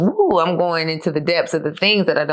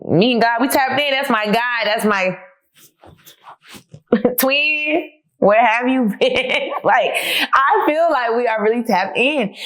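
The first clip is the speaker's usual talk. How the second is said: high, bubbly and laughing, slower at the end; giddy laughing excitement; 7 semitones higher, slower than usual. Real, not acted. To her viewers, about God being her twin, giddy laughing joy. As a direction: gush about God like a best friend.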